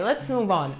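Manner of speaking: usual speaking voice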